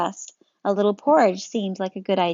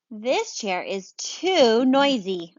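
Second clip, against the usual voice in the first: very slow, drawn-out grumble; a bear fed up with a creaky chair; lightly voiced bear, dragged out slowly; 3 semitones higher, much slower than usual. Bear voiced in read-aloud story.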